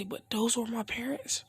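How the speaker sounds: breathless whispered disbelief; a hushed, shaken question; stunned whisper. Acted. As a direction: whisper it like the news just hit him. Naruto learns about his parents.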